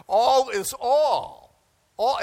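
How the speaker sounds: loud, slow insistence; emphatic. Real, not acted. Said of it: "emphatic repeat".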